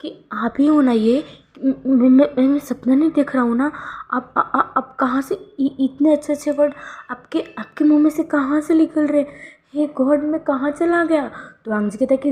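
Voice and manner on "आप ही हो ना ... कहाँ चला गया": dazed disbelief. A narrator's reading. Disbelief at loving words.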